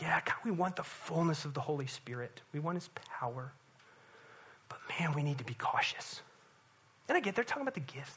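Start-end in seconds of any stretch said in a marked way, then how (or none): 0.0-6.2 mock timid prayer. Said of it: "but with our seatbelts on".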